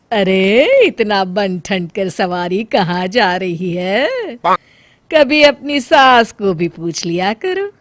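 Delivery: mother-in-law taunting the bride, slow and sneering; nagging mother-in-law. Acted. Mother-in-law scolds the dressed-up bahu, a sneering old voice. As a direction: needle the daughter-in-law about going out.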